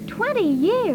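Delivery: put-on teen aghast at how long ago twenty years is; astonished. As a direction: hit TWENTY as if it were forever. Girl repeats age in disbelief.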